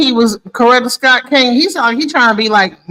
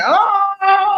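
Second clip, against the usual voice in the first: imitated bark; 9 semitones higher than usual. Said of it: "That doesn't say".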